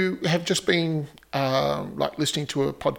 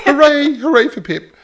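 loud cheer; 11 semitones higher, 10 dB louder than usual. Real, not acted. Cheering the guest Pip.

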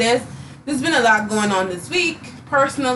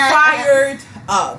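put-on loud, laughing Latina accent on fired up; hammed-up Latina accent with a laugh; 5 semitones higher, 5 dB louder than usual. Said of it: "That's my Latina accent coming through".

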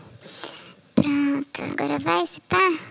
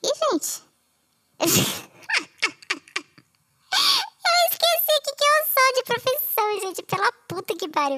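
flustered laugh; 11 semitones higher than usual. Real, not acted. Forgets her profession mid-intro.

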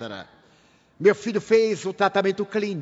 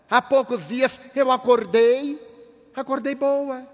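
voz da mãe; 3 semitones higher than usual. Retold or imitated. Mãe que esteve louca conta.

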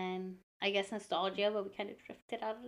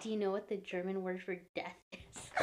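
creepy teacher; 5 semitones lower, 11 dB quieter than usual. Retold or imitated. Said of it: "he's like".

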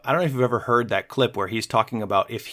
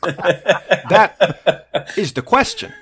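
slow, higher-pitched star impression; Christopher Walken; 4 semitones higher, 4 dB louder, much slower than usual. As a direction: stretch it out with odd pauses. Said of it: "Christopher Walken doing that".

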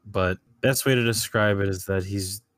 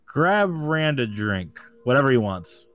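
regal order; 6 semitones higher than usual. Acted. King orders drink for goblin.

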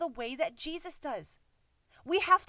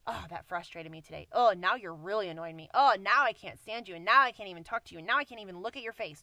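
starts low and grumbly, builds louder and faster; escalating irritation; 3 semitones lower, 5 dB louder, faster than usual. Retold or imitated. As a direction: let the annoyance pile up line by line until it bursts. Acting out irritation stacking up.

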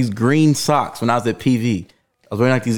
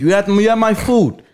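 higher mock London street accent; 5 semitones higher than usual. Imitating hood guys in London, London accent. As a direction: put on a pitched-up London accent. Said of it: "That's how they talk".

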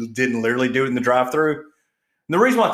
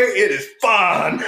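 tag; 4 semitones higher, 4 dB louder, much slower than usual. Pretend. Plays delighted wrong-car driver getting cash.

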